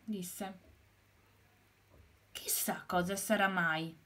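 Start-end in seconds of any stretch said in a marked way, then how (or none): 2.3-4.0 hushed mysterious whisper; whispered wonder. Acted. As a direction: whisper as if to herself. Hen wondering about bulb.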